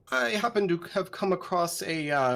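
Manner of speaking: lightly oily, evasive schemer; slimy accent. Acted. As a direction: make excuses in a slimy accent. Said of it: "drop the fucking slimy accent".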